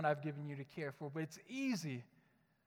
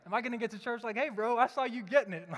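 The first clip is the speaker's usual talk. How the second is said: laughing imagined worry; 5 semitones higher, 7 dB louder than usual. Retold or imitated. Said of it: "you're kinda like".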